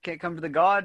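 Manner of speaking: put-on Boston accent, abandoned halfway; attempted Boston accent. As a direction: try a Boston accent, dropping the R. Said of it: "not even gonna attempt another Boston accent".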